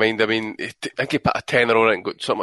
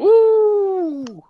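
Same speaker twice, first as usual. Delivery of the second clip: excited whoop; 4 dB louder than usual. Real, not acted. Cheering a big bet win.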